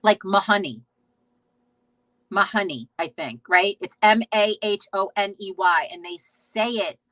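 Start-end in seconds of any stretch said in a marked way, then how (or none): 0.2-2.9 "Mahoney" said ma-HUN-ee, short uh vowel in the middle; Irish-style Mahoney. Shown as a demonstration. Streamer trying the Irish way to say "Mahoney", ma-HUN-ee. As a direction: try the Irish "Mahoney", ma-HUN-ee, a little unsure. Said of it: "I'm gonna butcher it".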